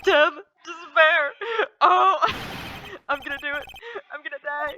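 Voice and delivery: high, melodramatic wail; hammed-up cries of doom; despairing screaming. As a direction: overact a client in hysterics. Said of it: "Isn't that your client screaming over there?".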